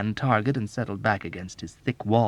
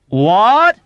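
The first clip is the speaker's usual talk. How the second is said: high, loud what; shout; 11 semitones higher, 13 dB louder than usual. Acted. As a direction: bellow it. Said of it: "Arfie shouted".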